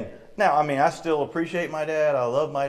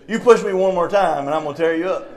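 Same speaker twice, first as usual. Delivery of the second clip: louder, emphatic tough-guy warning; acted schoolyard threat; mock threat; 3 semitones higher, 5 dB louder than usual. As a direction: warn him off with playful menace. Acting out a tough guy's threat.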